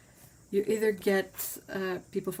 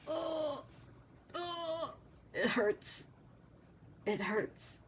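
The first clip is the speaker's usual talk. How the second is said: pained groan; 9 semitones higher, 6 dB quieter, much slower than usual. Real, not acted. Groans at the mangled name again.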